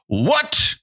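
very high, rising exclamation; shocked cry. Acted. Teacher shows how the unhappy ants cried, shocked high cry. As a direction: demonstrate the ants' cry, pitch leaping up. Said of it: "cried the grasshopper".

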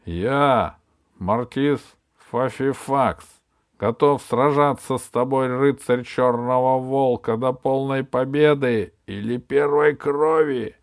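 loud, proud knight's challenge; exclaiming challenge. Acted. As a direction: call out the challenge boldly. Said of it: "воскликнул рыцарь".

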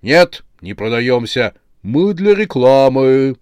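loud protest, drawn out at the end; protesting chorus. A narrator's reading. Display heads object to being sold, protesting. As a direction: refuse in a singsong chorus.

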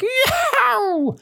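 very high drawn-out squealed yowl. Shown as a demonstration. Teacher showing how the creature squealed, squeal. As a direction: squeal it like a startled beast. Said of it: "Squeal like".

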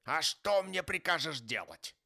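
loud, high-pitched objection; indignant retort. A narrator's reading. Scrooge objecting to his nephew, indignant. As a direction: snap back in exasperation. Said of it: "возражал Скрудж".

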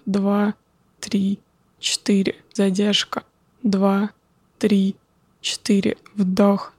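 calm, slow counting of breaths. Acted. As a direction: count the breaths slowly and calmly. Guides a breathing exercise.

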